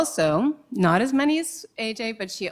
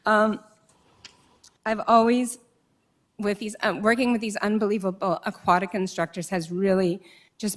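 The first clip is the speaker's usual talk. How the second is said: fighting back tears mid-sentence; teary; 2 semitones higher than usual. Real, not acted. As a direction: voice choked up with tears. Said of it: "Sorry, I'm getting teary".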